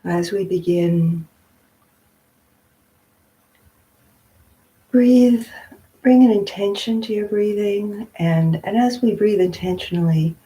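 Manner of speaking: unhurried meditation guidance with long pauses; guided meditation. Real, not acted. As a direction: gently guide them into stillness, phrase by phrase.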